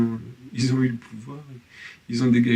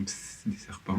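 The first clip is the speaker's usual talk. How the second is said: mock hushed warning; 2 semitones lower, 14 dB quieter than usual. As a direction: imitate a furtive "psst" warning. Acting out commenters' whispered warning. (faux avertissement chuchoté)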